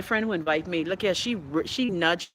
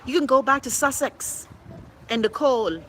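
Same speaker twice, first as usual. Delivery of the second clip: retold scolding; 4 semitones higher than usual. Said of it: "I was like".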